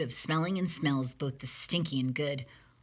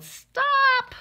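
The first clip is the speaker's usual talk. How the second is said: high, loud yelled stop; parents yelling stop; 10 dB louder than usual. A narrator's reading. Parents catching Ada mid-experiment: loud high stop. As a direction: bellow it to halt the mess. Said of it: "her parents yelled".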